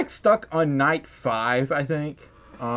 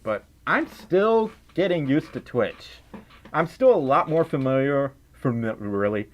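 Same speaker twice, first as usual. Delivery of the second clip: slipping into a Southern accent. Real, not acted. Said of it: "feel so much more natural for me to talk like that".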